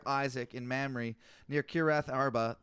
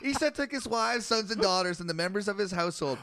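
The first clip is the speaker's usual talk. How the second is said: annoyed reading; 3 semitones higher, 4 dB louder than usual. Real, not acted. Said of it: "how mad you're getting".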